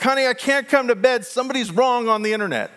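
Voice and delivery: high, loud, hammed-up exasperation; a sing-song, hammed-up plea to stay up; mock exasperated online arguer. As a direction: play the person who can't leave an internet fight. Arguing online, joking to spouse.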